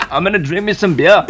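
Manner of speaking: mock Irish accent. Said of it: "Oh my gosh".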